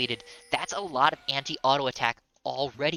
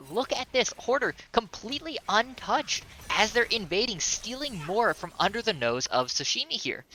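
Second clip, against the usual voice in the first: higher-pitched, insistent esports casting; live play-by-play; 6 semitones higher than usual. Real, not acted. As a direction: urge the losing team on from the commentary desk. Live play-by-play, urging the team.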